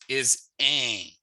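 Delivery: un with the N barely sounded; un, N swallowed into a nasal vowel. Shown as a demonstration. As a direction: say un through the nose, no real N. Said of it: "you don't really pronounce the N".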